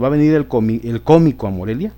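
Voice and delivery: cómico with the weight back on CÓ; correct stress. Shown as a demonstration. Teacher giving the correct version to the class. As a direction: say cómico properly. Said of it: "sería en la co".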